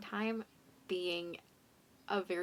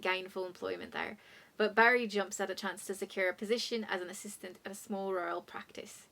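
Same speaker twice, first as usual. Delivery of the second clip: Irish accent. Shown as a demonstration. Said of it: "let's try it in an Irish accent".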